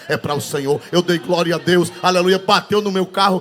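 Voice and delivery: usual speaking voice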